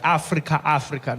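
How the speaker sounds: Africa with open "ah" vowels; African pronunciation of Africa. Shown as a demonstration. Comedian insists on the real continent, Africa said "Ah-free-kah". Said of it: "I mean Africa".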